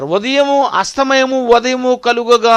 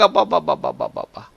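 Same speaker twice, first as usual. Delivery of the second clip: awed sigh; 8 semitones lower, 7 dB quieter than usual. Acted. Marvelling at God's many creatures.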